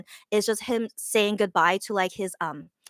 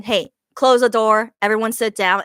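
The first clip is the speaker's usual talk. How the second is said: commanding call; 6 dB louder than usual. Retold or imitated. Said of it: "he tells everyone".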